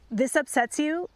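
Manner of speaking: mock the upset, not kindly; unkind retort. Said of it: "my vocal prosody was not kind".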